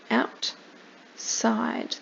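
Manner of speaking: outside breathed in a whisper. Shown as a demonstration. Teacher repeats outside to the child, whispering. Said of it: "and outside".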